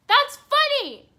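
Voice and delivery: shrieking amused outburst; squealed laugh line. Real, not acted. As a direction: squeal it out in delight. Laughing at the garden scene.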